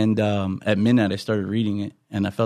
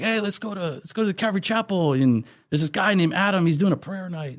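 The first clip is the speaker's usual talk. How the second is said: quoting Roy; 8 semitones higher than usual. Retold or imitated. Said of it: "Roy's like".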